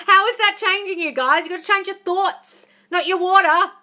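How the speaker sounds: loud, high-pitched outburst; exasperated rant. Real, not acted. Coach berating viewers over water myths, exasperated shouting.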